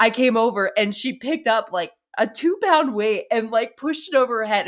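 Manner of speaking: excited. Real, not acted. Excited retelling of niece.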